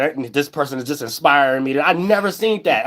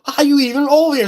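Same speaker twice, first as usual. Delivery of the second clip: mocking the bank robbers; 8 semitones higher than usual. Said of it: "they gonna say".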